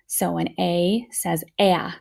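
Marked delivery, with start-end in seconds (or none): 0.6-1.1 short A as in staff; short vowel sound. Shown as a demonstration. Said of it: "a short vowel, they're special sounds".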